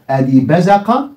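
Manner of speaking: "بزق" said slowly and deliberately; teacher sounding out the word; slow demo pronunciation. Shown as a demonstration. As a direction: spell out "بزق" as you write. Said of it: "بص هنكتب أهو".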